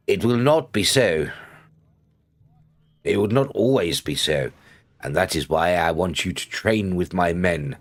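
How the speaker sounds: measured read-aloud of a character's speech; quest narration. Acted. Streamer reading the quest to viewers, measured narration.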